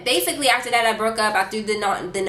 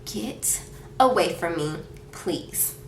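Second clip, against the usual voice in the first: quiet, slow, disgusted dismissal; retold disgust; 2 semitones lower, 6 dB quieter, slower than usual. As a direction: push them away in a slow, drained near-whisper. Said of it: "I was instantly just disgusted".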